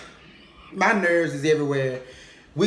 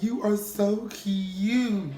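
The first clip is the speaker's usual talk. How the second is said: gushing cousin; 4 semitones higher than usual. Retold or imitated. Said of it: "Mia's just looking like".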